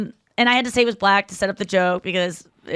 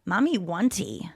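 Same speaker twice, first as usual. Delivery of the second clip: put-on playful baby talk; 3 semitones lower, 6 dB quieter, slower than usual. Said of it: "to myself, I was just like".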